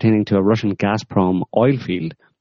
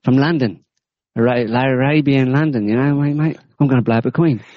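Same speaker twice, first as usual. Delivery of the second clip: mock cockney jihadi; 6 semitones higher than usual. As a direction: play a cocky lad from London, pitched well up. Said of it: "I'm a proper jihadi, mate".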